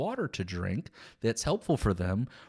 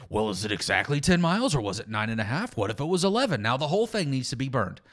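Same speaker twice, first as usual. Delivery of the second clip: mock nitpicking; faster than usual. Mimics nitpicker discrediting Scripture.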